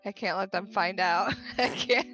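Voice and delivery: mock panic. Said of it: "I'm like".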